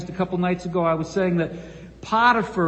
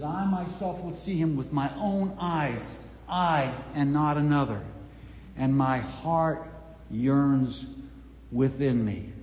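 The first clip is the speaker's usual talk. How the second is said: tender, hushed; 4 semitones lower, 4 dB quieter than usual. Acted. Job's words, softly and slowly.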